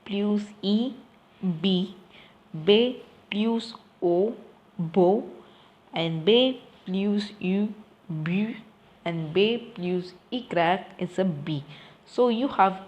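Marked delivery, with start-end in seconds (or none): 1.6-2.0 B plus E blended into one syllable; syllable sound. Shown as a demonstration. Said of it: "what is the sound". 4.8-5.2 BO blended into one syllable; syllable sound. Shown as a demonstration. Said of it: "what is the sound". 8.1-8.5 BU blended into one syllable; syllable sound. Shown as a demonstration. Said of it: "what is the sound".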